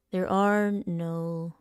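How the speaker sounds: slow, drawn-out rehearsal read; script read-through. Shown as a demonstration. Rehearsing a stern speech aloud, slow and drawn out. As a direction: stretch each word out slowly.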